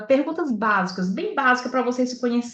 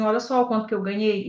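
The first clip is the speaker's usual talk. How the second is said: usual speaking voice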